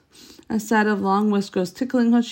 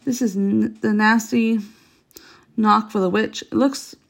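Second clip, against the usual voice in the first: delighted. Acted. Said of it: "almost dancing with delight".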